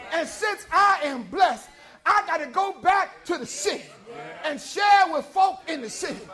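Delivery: preacher voicing the Samaritan woman's urgent joy; joyful testimony. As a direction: carry her joy toward the city.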